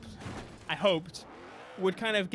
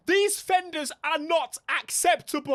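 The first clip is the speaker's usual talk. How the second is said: high, loud indignant complaint; hammed-up disgust at the fenders; mock outrage; 9 semitones higher, 6 dB louder than usual. Streamer mocking the game's fenders, in high loud mock outrage. Outrage at car's body kit.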